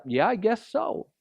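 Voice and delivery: mock-casual brush-off; sarcastic shrug. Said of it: "a little sarcastic and be like".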